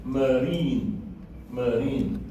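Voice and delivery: marine said twice with a long "ee"; long "ee" in the second syllable of marine; long E sound. Shown as a demonstration. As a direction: demonstrate muh-REEN, holding the vowel each time. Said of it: "as to a long E sound".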